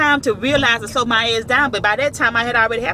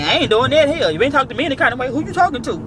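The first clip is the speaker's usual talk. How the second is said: uncle talking back; 3 semitones higher, faster than usual. Retold or imitated. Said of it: "That's how my uncle talk".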